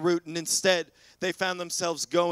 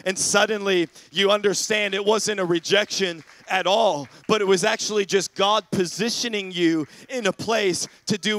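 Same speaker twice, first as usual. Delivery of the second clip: louder, driving sermon delivery; emphatic preaching; 3 semitones higher, 5 dB louder than usual. Real, not acted. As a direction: preach it out with conviction. Preaches with rising force.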